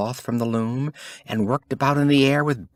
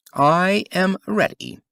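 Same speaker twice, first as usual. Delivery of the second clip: slow, loud and high, full of pride; proud emperor; 9 semitones higher, 5 dB louder than usual. A narrator's reading. Emperor announcing himself to the court, proud and slow. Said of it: "said the emperor".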